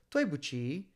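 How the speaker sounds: dui bu qi said as one careful phrase with clear tones; Chinese phrase demo. Shown as a demonstration. Teacher modelling dui bu qi for Chinese learners, careful tones. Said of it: "So qi".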